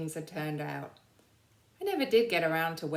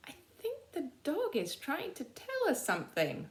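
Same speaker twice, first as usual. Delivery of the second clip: slow realisation; 12 semitones higher than usual. Acted. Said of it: "he said slowly".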